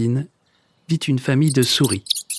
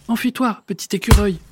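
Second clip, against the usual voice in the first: high urgent call to flee; crying out a warning; 7 semitones higher than usual. Acted. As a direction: warn the squirrel, pitched high. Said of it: "crie Monsieur Marcelin".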